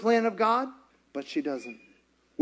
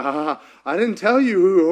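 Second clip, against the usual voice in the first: a touch of giddy disbelief; lightly voiced Mary; 5 dB louder than usual. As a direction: blurt it out as an overwhelmed Mary. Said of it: "Mary's like".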